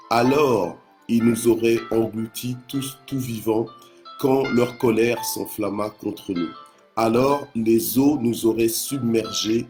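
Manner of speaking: measured psalm reading with pauses between phrases; solemn public Bible reading; scripture reading. Acted. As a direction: read the verse out to a congregation, weighting each phrase. Reads the psalm aloud.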